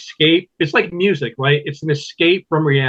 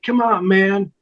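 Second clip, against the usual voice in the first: lightly voiced old man; a hint of an old man's slow drawl; Joe Biden impression; 4 semitones higher, slower than usual. Comedian doing Joe Biden for the interviewer, lightly voiced old man. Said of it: "I can do Joe Biden".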